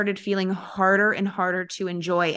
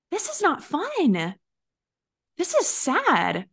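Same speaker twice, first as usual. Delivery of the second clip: slow, higher, mock-mournful sigh; mock sad; 7 semitones higher, much slower than usual. Coach imitating the gloom of coaching calls, slow mock sadness. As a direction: drag it out like a pouting complaint.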